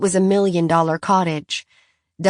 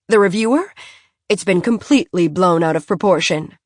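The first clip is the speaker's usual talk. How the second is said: a touch of an indignant best friend; defensive socialite. Acted. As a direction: brush the gossip aside, talking fast. Philly defending Sutton.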